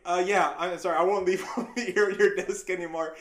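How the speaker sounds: loud, flustered apology; hurried apology. Retold or imitated. Nineteen-year-old to his upset boss, flustered apology. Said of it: "I knew he was already upset".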